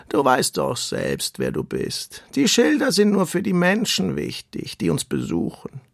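calm storybook tortoise. Acted. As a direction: let each word take its time like an old tortoise. Tortoise Samia speaks.

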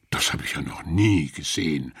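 a regular blurting out his surprise; astonished guest. A narrator's reading. Guest in the tavern to the landlord, amazed. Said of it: "sagte ein Mann".

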